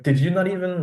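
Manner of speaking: high-pitched mock indignation; retold exasperation. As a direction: act out being baffled and annoyed at worshippers. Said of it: "It used to piss me off so much".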